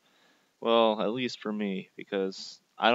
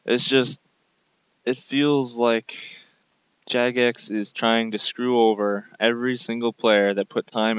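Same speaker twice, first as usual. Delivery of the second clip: angry rant. Real, not acted. Ranting against game updates.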